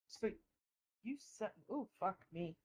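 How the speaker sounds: words round a chewed cigar; chewing while talking. Real, not acted. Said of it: "I'm chewing on a cigar".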